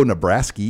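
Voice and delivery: Nebraska mimicked with an "-skee" ending; mimicked slip. Co-host teasing the host over the slip, Nebraska ending in ee. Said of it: "Did you just go".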